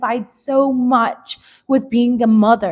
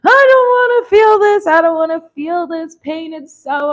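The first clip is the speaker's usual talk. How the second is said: much higher and louder, a pleading cry that fades; distraught wail; 6 semitones higher, 6 dB louder than usual. Retold or imitated. To her girlfriend, refusing to feel the pain, distraught wail. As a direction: wail it like you can't take the pain. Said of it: "And I was like".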